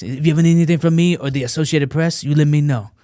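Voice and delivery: put-on French accent, earnest offer; French accent impression. French reporter offering his rescuer a favour, French accent. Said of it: "I could do an impression".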